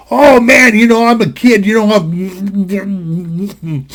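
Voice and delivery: talking through a mouthful of food; mouth full. Retold or imitated. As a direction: mumble it with cheeks stuffed with food. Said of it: "your cheeks are puffed up with food".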